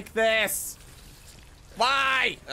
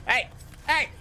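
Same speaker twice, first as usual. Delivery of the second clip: calling out; 13 semitones higher than usual. Real, not acted. Calling out to a character.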